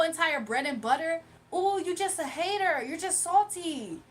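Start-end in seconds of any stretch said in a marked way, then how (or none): 1.5-4.0 taunting. Real, not acted. Taunting a hater.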